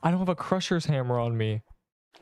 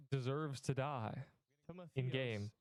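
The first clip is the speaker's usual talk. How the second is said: much softer and slower; faking a cut-out mic; 15 dB quieter, slower than usual. Shown as a demonstration. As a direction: let the words vanish. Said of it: "Plug your mic back in".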